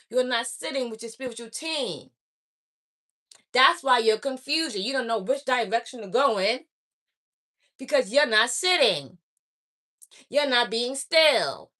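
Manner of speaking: eindringlich und laut predigend, langsam zum Schluss; rüttle sie wachsam auf wie eine Predigerin; intense preaching. Real, not acted. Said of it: "I'm sorry if I'm talking like this".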